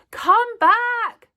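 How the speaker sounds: high, loud call after him; shouting. A narrator's reading. Zoe calls after the fleeing newsagent, shouting. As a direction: call down the street. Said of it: "she shouted".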